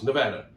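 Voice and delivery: "Nevada" with a short A, as in "cat"; "Nevada" said firmly the local way, middle vowel as in "dad"; correct local pronunciation. Shown as a demonstration. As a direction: plead for "Nevada" as nuh-VAD-uh. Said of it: "Please, people".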